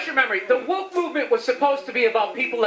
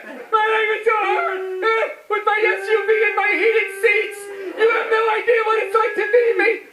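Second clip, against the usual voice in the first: complaining white women; 8 semitones higher than usual. Retold or imitated. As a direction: imitate a self-pitying whiner at full volume. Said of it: "so much complaining in my life from white women".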